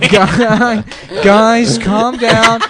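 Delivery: mock a flustered teacher calling for calm; imitated teacher. Teacher calming kids at the window, imitated pleading. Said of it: "The teacher's like".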